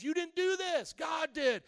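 preaching shout. Real, not acted. Pastor proclaiming God made the day, shouting. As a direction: thunder it out to the congregation.

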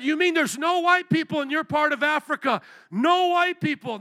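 high, loud retold disbelief; incredulous. Preacher retelling his questions to the Kenyan, incredulous. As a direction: question it as if astonished, pitch jumping up.

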